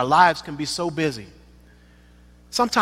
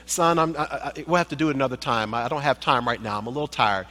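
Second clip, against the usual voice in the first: low, soft weary dad voice; tired father; 3 semitones lower, 4 dB quieter, faster than usual. Pretend. Father after work telling son no, low and weary. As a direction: brush him off gently, worn out.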